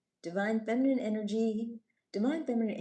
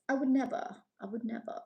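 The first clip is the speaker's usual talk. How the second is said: mock innocence; 5 semitones higher than usual. Mock denial of the accusation.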